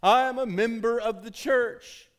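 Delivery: mock entitled churchgoer. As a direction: ham up the entitled member, slowly.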